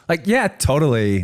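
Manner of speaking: put-on high-pitched Valley girl accent; California girl accent. Man imitating his partner's American accent, California Valley girl. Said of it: "she goes straight California girl".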